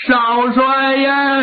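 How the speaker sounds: slow, long wailing call; drawn-out wail. Acted. Servant wails for the young marshal, slow and drawn out. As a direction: stretch the cry out in grief. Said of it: "哭得特别痛".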